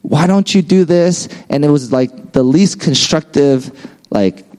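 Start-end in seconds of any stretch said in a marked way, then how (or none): 0.0-1.3 higher-pitched retold yell; mock yelling. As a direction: imitate an aggressive boss, half-hearted yell. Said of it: "she would just always be yelling".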